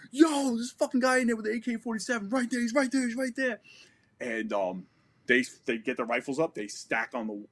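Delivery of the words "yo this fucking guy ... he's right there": high, insistent pointing out; urgent call-out. Retold or imitated. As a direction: make them see the enemy now. Pointing out the gunman to soldiers.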